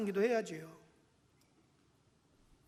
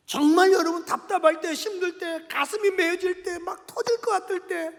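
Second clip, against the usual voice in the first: fervent preaching; 7 semitones higher, 7 dB louder than usual. Real, not acted. Preaches at full force.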